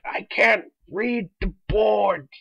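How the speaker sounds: very slow, crying whine; mock whiny girl. Mocking a girl in class who won't wear glasses, whining. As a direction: whimper it like a helpless student.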